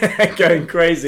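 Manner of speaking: loud, slow, hammed-up rant; mock fan losing it; going crazy. Mocking fan meltdown.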